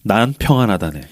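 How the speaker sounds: low, understated reply with a hint of a smile; faint smile. Walt turns back to answer the priest, faintly smiling. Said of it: "이게 아주 옅게 웃잖아요".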